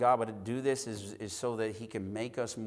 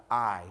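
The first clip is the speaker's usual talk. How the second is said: "I" set apart on its own; a lone, weighted "I"; stress on I; 3 semitones lower than usual. Shown as a demonstration. Preacher dwelling on each word one at a time, stressed "I". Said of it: "each word one at a time".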